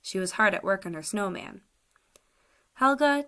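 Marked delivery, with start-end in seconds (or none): 2.7-3.2 raised call across the snow; calling to a friend a few feet away. Acted. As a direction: call her name out, higher and louder. Calling out to Helga.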